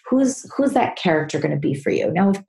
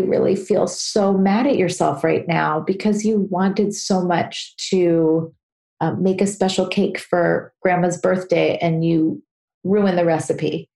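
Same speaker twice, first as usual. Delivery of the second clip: slow, tender, drawn-out sympathy; gently soothing, with lingering words; warm loving voice. Shown as a demonstration. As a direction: comfort them like a loving mom. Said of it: "So that warm voice would say".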